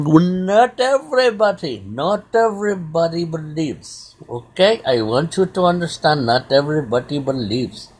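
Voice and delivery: lightly put-on Indian accent; Rajneesh's Indian accent. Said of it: "I love that accent".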